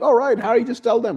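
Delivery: very high, squeaky put-on girl's voice; mock desperate giving-in. Hermione pretending to give in to Umbridge, high-pitched mock plea. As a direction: pitch it way up, pleading.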